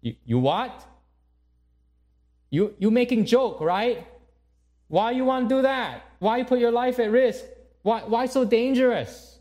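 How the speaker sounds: high, loud, shocked mother voice in broken English; appalled mom scolding; alarmed Asian mom. Acted. Mother aghast at daughter volunteering abroad, shrill protest. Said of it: "the mom's face completely changes".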